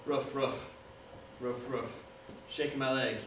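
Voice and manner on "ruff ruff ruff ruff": soft, low mock ruff-ruff; a half-hearted little bark, lower and quieter; dog barks. Deadpan dog impression for the viewers, soft low barks. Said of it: "three ball impression of a dog".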